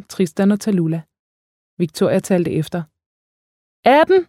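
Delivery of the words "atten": high-pitched, mild shout; understated narrated shout; called out. A narrator's reading. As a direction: call it out in a raised pitch. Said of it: "råbte hun".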